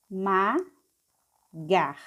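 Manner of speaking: "esmagar" very slowly as es, ma, gar; slow three-beat reading of "esmagar"; syllable by syllable. Shown as a demonstration. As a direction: sound out "esmagar" with long gaps between syllables. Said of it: "vamos ler passo a passo".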